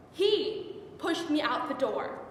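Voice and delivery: slow, weighted dramatic delivery; slowed down, with a pause after the first word; deliberate repetition. Acted. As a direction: spell out the betrayal word by word. Repeats the line for emphasis.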